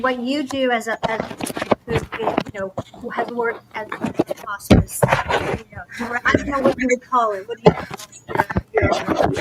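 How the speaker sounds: audio cutting out on a call; choppy, dropping connection; radio breaking up. Real, not acted. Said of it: "You're cutting out".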